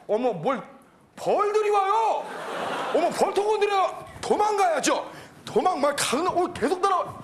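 very high, frantic shrieking; comic panic. Acted. Worker fleeing bees and warning the manager, panicked shrieks. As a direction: cry out in hammed-up alarm as if chased.

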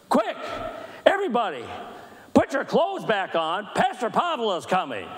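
high-pitched calling out through a doorway; mock urgent call. Pastor as Cindy warning the staff party, mock urgent call. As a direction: imitate a comic warning to a roomful.

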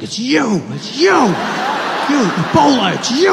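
high, loud frantic accusation; accusing shout. Retold or imitated. Scared passenger accusing Trevor of Ebola, high frantic shout. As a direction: point at him and yell.

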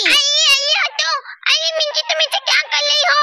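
high-pitched dismayed protest; alarmed protest. Acted. Girl to friend wiping off her henna, alarmed.

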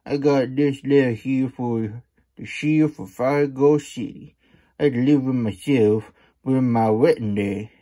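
coyote voice. Acted. Coyote's pleading speech.

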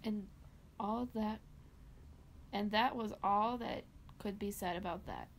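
story narration. Acted. Reads a dark Christmas story.

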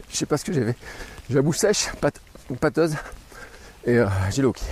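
talking through hiccups; hiccuping between words. Real, not acted.

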